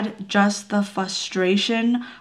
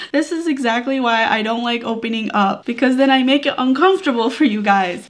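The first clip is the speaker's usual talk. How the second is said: laughing through tears; 4 semitones higher, 5 dB louder than usual. Real, not acted.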